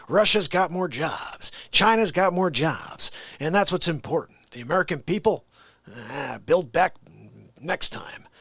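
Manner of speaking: lightly voiced rambling politician, mildly indignant; folksy stump-speech impression with swooping emphasis; Joe Biden. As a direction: ramble like a muddled president boasting. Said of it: "a good Joe Biden impression".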